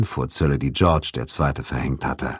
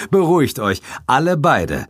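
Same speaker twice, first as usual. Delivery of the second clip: chuckling, pitched up; laughing; 10 semitones higher than usual. A narrator's reading. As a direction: laugh as you calm them. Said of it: "lachte ich".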